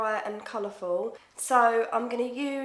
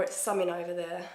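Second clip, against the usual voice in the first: casual Essex talk with "summing" for something; Essex accent; 3 semitones lower than usual. Acted. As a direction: demonstrate an everyday Essex accent. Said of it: "an Essex accent".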